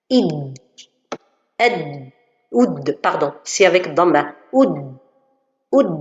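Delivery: "id", "ad", "oud" with the final consonant not bounced, sounding like the letter dad; wrong qalqala demo. Shown as a demonstration. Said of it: "Ça, ça, c'est faux".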